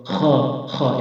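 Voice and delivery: "খ" scraped from the upper throat; raspy fricative "খ", each one set apart; demonstrated Arabic kha. Shown as a demonstration. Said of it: "এভাবে".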